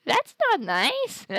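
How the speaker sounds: high, loud offended yell; indignant shout. Real, not acted. Calling out at someone off-mic.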